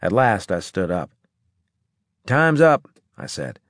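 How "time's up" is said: louder barked order; commanding call. Acted. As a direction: call it out to the squad. Commander calls time.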